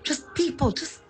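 frustrated rant with lively pitch swings; real mild frustration; flustered. Real, not acted. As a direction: vent your exasperation, a bit flustered. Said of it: "She still sounds a bit flustered".

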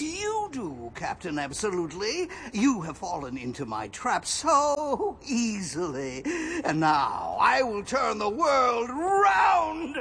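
triumphant evil gloat; gloating villain laugh. Acted. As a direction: crow over the trapped hero. Villain springs his trap.

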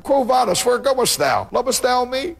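his own impassioned version of the Lord's call; the preacher's own version. Shown as a demonstration. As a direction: cry the question up high, pleading. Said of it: "I like to give my version of".

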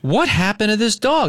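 high alarmed cry in the retelling; retold panic. Owner reliving her alarm over the choking dog, high panicked voice. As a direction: sound the owner's alarm again as she retells it.

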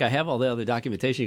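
fast, insistent "I have all the other documentation"; rushed repeat. Retold or imitated. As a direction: rattle it off quickly to the guard. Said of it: "I'm like".

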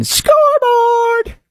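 high stretched mock shout of Scoreboard!; sarcastic gloat. Host sarcastically gloats at listeners, high mock shout. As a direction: yell it slow like a smug fan. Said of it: "I am being sarcastic".

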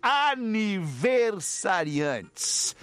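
very slow, stretched announcement; drawn-out announcer. Acted. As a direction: stretch each word like a host. (anúncio arrastado de apresentador)

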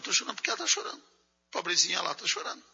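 quick, hushed imitation of a woman crying along; hammed-up sympathetic crier, fast and hushed; mock weepy woman. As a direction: rattle it off softly like a silly crier. Mocking an emotional woman's reply.

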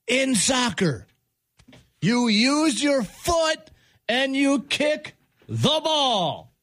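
slow exasperated ranting. Real, not acted. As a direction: spell out the obvious in disbelief. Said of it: "got a little angry here".

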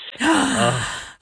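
sharp delighted intake of breath; excited gasp. Real, not acted. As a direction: gasp at the dream destination. Hearing about trip to Greece.

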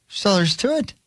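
a light, accidental Irish lilt; slipping into Irish. Real, not acted. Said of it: "I went Irish all of a sudden".

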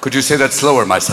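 low sly priest voice; leering priest. Retold or imitated. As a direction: ask it like a lecherous priest. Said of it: "priest in confession".

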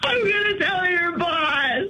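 slow, crying threat; tearful threat. Real, not acted. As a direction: threaten him while crying. Wife threatens husband through tears.

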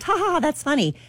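high, fake little laugh as Kate; mock laugh. Host retelling Kate Moss laughing off the bite, mock laughing. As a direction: imitate a polite forced chuckle. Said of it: "Kate at first kinda laughed".

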